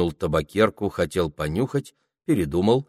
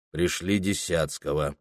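gloomy, low and quieter; 3 semitones lower, 5 dB quieter than usual. Acted. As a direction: mutter the order sullenly. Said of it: "хмуро повторил он".

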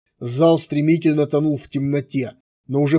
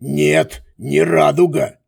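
mocking voice; 4 dB louder, slower than usual. A narrator's reading. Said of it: "произнёс тот же насмешливый голос".

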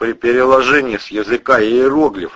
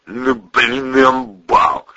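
admiring; 4 semitones higher, much slower than usual. Acted. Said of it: "восхищённо протянул".

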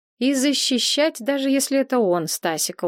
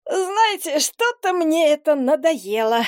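bored, high voice through a yawn; 6 semitones higher than usual. A narrator's reading. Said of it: "зевнул".

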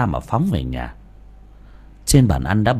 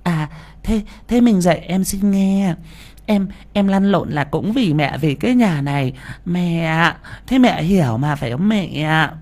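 laughing it off; 7 semitones higher than usual. Acted. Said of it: "cười xòa".

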